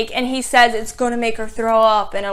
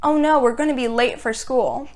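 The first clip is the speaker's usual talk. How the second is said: mocking quote; 4 dB quieter than usual. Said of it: "That line really bothered me".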